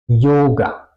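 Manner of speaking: "Yoga" starting with a y-glide, falling; Y como J alemana. Shown as a demonstration. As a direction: say "Yoga" with a German J onset. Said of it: "se pronuncia como una J". ("Yoga" con sonido de jota alemana)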